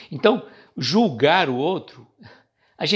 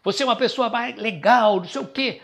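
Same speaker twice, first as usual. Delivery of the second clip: high, forceful start that drops off; hammed-up abrupt praise, pitched high; mock brusque compliment; 8 semitones higher than usual. Shown as a demonstration. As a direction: praise someone in a startlingly unsweet voice. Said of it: "você pode fazer o outro lado".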